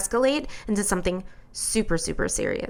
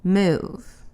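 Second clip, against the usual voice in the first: calm; 2 semitones lower than usual. Retold or imitated. Answering the angry officer calmly, steady and measured. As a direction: stay cool and explain evenly. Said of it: "I'm this calm when I'm saying it".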